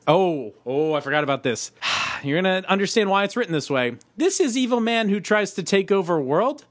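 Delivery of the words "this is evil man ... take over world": higher-pitched mock Russian accent. Host reading a watcher's letter to the tribunal, Russian accent. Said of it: "This is written in a Russian accent".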